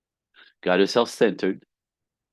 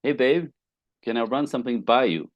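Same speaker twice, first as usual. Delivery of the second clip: friendly opener; 4 semitones higher than usual. Shown as a demonstration. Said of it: "So instead of".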